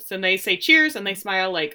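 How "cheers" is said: loud, high cheers; toast. Retold or imitated. Roy and Jamie clinking glasses, loud high cheers. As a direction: lift it like a toast. Two players toasting at bar.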